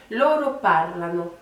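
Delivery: "Loro parlano" with the first syllable of parlano leaned on; first-syllable stress. Shown as a demonstration. Teacher showing learners the accentuation, "Loro parlano" stressed early. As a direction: demonstrate "Loro parlano", weight early in each word. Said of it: "c'est pour bien vous montrer".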